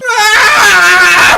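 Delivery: high, loud held "aah"; drawn-out cry. Acted. Performer reading out a written noise, long high cry. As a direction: belt out one long high wail.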